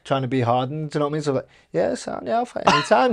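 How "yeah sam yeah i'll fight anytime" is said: mock bravado. Boy faking toughness to coach.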